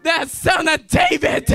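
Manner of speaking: lightly voiced desperate plea. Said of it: "He cried out louder".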